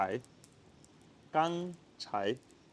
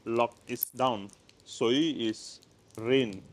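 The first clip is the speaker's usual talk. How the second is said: "Lok" and "Sui" spoken slowly and clearly; slow down on each word; slow explanation; 2 semitones lower, much slower than usual. Shown as a demonstration. Teacher explaining Cantonese words slowly. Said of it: "in Cantonese you say lok sui".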